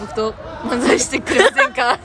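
standard Japanese. Shown as a demonstration. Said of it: "標準語で言ったらさ".

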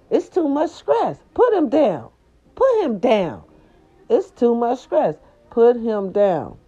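hammed-up, begging her to give him up; mock-dramatic high plea; mock exasperated pleading. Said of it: "I said".

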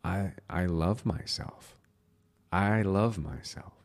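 a heartfelt, unhurried I love myself; slow, felt. Shown as a demonstration. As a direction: let it land, slowly and softly. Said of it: "say it and listen to it".

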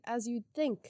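ordinary delivery

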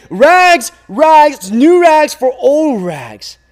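loud, high call, drawn out slowly; crying out. A narrator's reading. Rag man calling through town, loud drawn-out cry. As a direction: call your wares to the whole street. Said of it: "The ragman cried out again".

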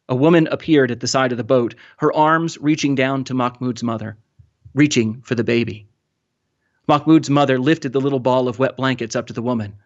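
measured, expressive novel reading; story narration. A narrator's reading. Author reading a refugee survival scene aloud, expressive narration. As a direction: read the tense sea scene with careful phrasing.

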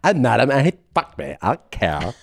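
mock girl-speak shrugging it off; put-on girl talk; mimicking young women. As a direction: protest in exaggerated girly vowels. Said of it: "And they're like".

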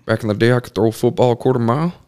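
fast, boastful washed-up jock voice; Uncle Rico. Retold or imitated. Imitating the great uncle who sounds like Uncle Rico, fast boast. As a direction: brag about the old glory days, quickly. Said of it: "he sounds just like Uncle Rico".

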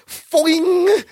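high, springy cartoon "foing"; imitated bounce noise. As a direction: mimic bouncing off with a high boing. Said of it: "I love it. He goes".

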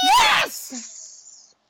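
very high, loud yell; real fan's shriek; exultant scream. Real, not acted. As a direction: scream with joy at the save. Celebrating a save.

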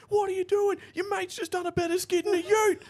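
high, loud heckling bogan; mocking heckler. Mates mock the towed drag car, high loud jeer. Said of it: "and be like".

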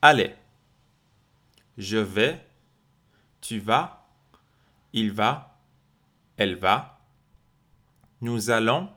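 each form set apart by a pause; a second pass of the repeat drill; drill again. Shown as a demonstration. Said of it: "Encore une autre fois".

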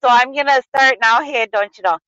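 Wisconsin accent. Shown as a demonstration. Explaining an odd Illinois law to a co-host, Wisconsin accent. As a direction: lay on a thick Wisconsin accent. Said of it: "with the Wisconsin accent if you want".

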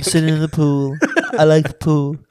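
lightly voiced Obama, barely off his own voice; a hint of Obama, said deadpan; half-hearted Obama, mostly own voice; Obama impression. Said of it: "Doch, ich kann Obama".

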